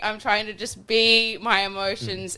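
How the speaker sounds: strained, high, slow pleading; exasperated high pleading. Retold or imitated. Pleading to critics.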